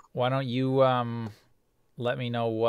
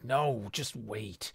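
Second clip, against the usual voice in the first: governor stalling; 7 dB quieter, much slower than usual. Acted. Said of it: "And he's like".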